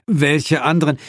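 high, anxious question; alarmed. Acted. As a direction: demand it nervously.

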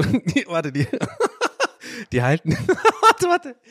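high breathless giggle through the words; giggling. Real, not acted. Host cracks up at his own Clara description, giggling. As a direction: laugh so hard you can barely say warte. Giggling fit mid-sentence.

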